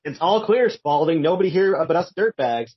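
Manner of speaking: lightly imitated henchman giving the all-clear; Specs. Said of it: "trying to do an impression of Specs".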